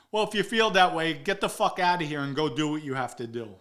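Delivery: loud opening, forceful brush-off; retold angry dismissal. Vinny telling him to get out, angrily retold. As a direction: act out throwing him out, hitting the first words hard.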